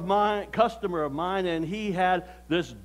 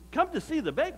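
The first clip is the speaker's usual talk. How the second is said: high questioning echo with rising end; mock puzzlement, pitched up; puzzled echo; 7 semitones higher, faster than usual. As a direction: repeat it back as a doubtful question. Narrator echoes visitors in disbelief.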